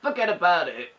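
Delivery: lightly British, said on request; British accent. Shown as a demonstration. Answering a viewer's request, British accent. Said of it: "forget about it' with a British accent".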